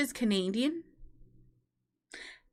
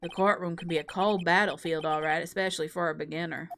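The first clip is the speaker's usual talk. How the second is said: cocky prosecutor; 6 semitones lower than usual. Acted. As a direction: purr the taunt down low. Rival lectures the beginner.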